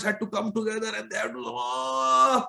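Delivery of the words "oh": long, high strained "oh"; straining with effort. Acted. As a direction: heave out a long "oh". Straining to lift the deity.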